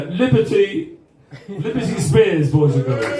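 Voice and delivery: slow, laughing build to a shouted name; grand announcement. Real, not acted. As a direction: present her like a star to the crowd. Host announces the last guest.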